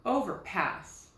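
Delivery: "Overpass" said slowly, leaning a little on "pass"; slight stress on pass. Shown as a demonstration. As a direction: test the word aloud, a light accent on the end of "Overpass". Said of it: "put the accent a little bit on pass".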